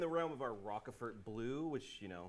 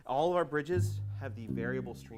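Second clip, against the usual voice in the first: slightly breathless while explaining; out of breath. Real, not acted. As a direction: talk short of breath after laughing. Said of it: "I'm out of breath".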